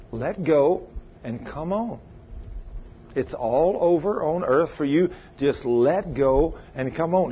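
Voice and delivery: slow, softly luring voice; lightly voiced tender call; mild gentle beckoning voice. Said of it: "I hear this beautiful voice".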